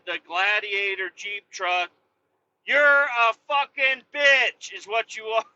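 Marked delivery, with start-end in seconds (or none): 2.7-5.4 slow, louder, higher insult; slow, deliberate angry insult. Acted. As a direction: spit each word out slowly. Ranting insult.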